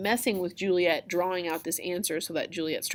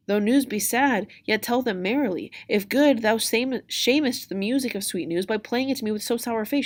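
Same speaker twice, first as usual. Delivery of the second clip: lightly acted Juliet, pitched up; mildly anxious verse reading; pleading Juliet; 5 semitones higher, 3 dB louder than usual. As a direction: coax the nurse for her news.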